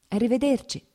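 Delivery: a kind, smiling "Arrivederci." to make up for the chill; smiling goodbye. A narrator's reading. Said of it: "con un sorriso disse". ("Arrivederci." detto con un sorriso gentile, più acuto)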